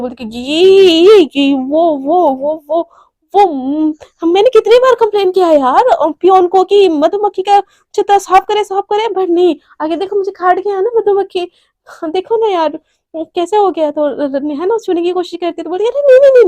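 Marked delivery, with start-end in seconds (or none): 0.4-13.9 flustered, tripping over words, a bit louder; panicked stammering. Acted. Devika makes excuses to Neha, panicked stammering. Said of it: "एकदम से घबरा जाती है". 15.9-16.4 sudden high, loud no-no-no; startled refusal. Acted. Devika stops Neha touching her neck, startled high loud refusal.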